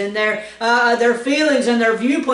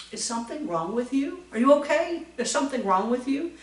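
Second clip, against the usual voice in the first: asking what's wrong; 4 semitones higher, 5 dB quieter, faster than usual. Retold or imitated. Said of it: "it might sound something like this".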